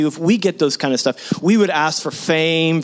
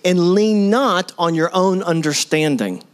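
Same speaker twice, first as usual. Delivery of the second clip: slow scripture reading; slower than usual. Acted. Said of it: "It says".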